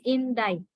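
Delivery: "indict" said in-DITE, silent c; model pronunciation. Shown as a demonstration. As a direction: say "indict" to rhyme with bite. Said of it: "we pronounce the word as".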